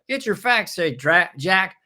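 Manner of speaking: put-on high, blustery old-man politician voice; rambling Biden impression quoted back at him. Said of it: "puts a little reporter in with a mic up going".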